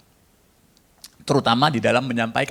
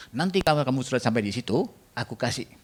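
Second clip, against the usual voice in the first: lightly voiced God, softer and hushed; 5 dB quieter than usual. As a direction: speak as God, quietly commanding. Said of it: "suara Tuhan". (suara Tuhan yang lembut dan pelan)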